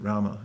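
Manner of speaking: Rama said RA-ma in Sanskrit; Rama, both syllables sounded; Sanskrit two syllables. Shown as a demonstration. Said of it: "It's two syllables, Rama, in Sanskrit".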